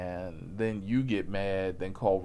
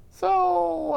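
loud exclaim; 7 dB louder than usual. Acted. Punchline build.

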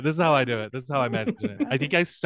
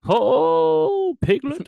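gentle honey-loving bear voice; Winnie the Pooh voice; 11 semitones higher, 5 dB louder, much slower than usual. Retold or imitated. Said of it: "Very hard to do Winnie the Pooh".

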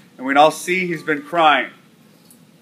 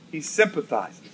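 hushed; 7 dB quieter than usual. Acted. Hushed turn in sermon.

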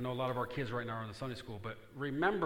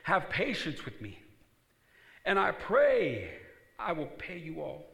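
pleading servant; 6 semitones higher, 8 dB louder, slower than usual. Acted. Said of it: "fell down before him, saying".

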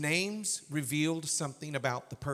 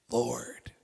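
reverent whisper; 3 semitones lower, much slower than usual. Acted. Listing names reverently.

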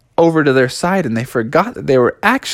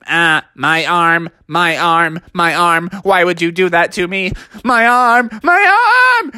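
mock wailing robot. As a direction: whine over the lost arm then howl. Robot loses its arm.

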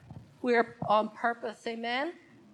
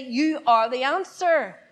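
slow spoken line to repeat; 2 semitones higher, 7 dB louder, slower than usual. Shown as a demonstration. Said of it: "Turn to your other neighbor and say".

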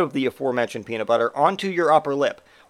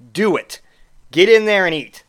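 urging shout; 4 semitones higher, 5 dB louder than usual. Acted. Urging the eater on.

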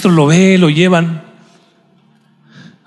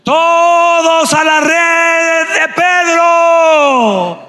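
very high, very slow shouted order; commanding shout; 12 semitones higher, much slower than usual. Acted. Creator ordering the fish to Peter's net, shouted. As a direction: summon every fish to the net.

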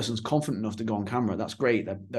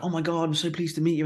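higher-pitched imitation of an eager greeting; imitated enthusiasm; 5 semitones higher than usual. Keen couple greeting their famous host, imitated enthusiasm. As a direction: retell a gushing hello. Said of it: "they're really enthusiastic, really passionate".

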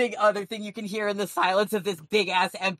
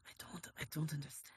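put-on slow, soft French-accented villain; a hammed-up French villain speech; dumb French accent; 4 dB quieter than usual. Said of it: "in this dumb French accent".

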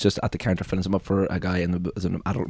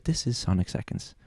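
slow, soft intro as if presenting a friend; calm host lead-in; friendly introduction; 8 dB quieter, slower than usual. Shown as a demonstration. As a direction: introduce it like a new pal. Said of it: "pretend Sonic Seconds is your friend and just say".

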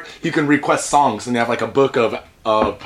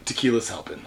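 hungover; 2 semitones lower than usual. Real, not acted. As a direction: sound worn out from last night. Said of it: "a bit fucking hungover".

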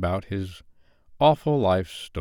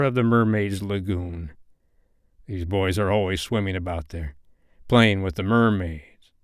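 scheming pirate captain. Acted. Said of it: "a curdling smile lit up".

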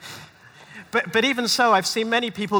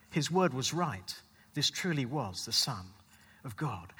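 spoken poem. Acted. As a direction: recite it like a poem, ending hushed. Rhymed poem in sermon.

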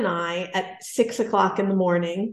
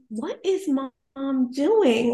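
puzzled son; 4 semitones higher, much slower than usual. Retold or imitated. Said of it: "I hear my son say".

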